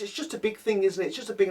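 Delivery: high, dismissive mock mum; mimicking mum. Mum dismissing the scone, high mock scorn. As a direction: scoff at the scone like she did.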